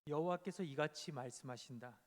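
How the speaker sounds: lightly voiced prophet calling out; prophet's proclamation. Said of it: "열왕기상 십삼 장 이 절로 삼 절에 보면 이렇게 이야기합니다". (예언자의 선포)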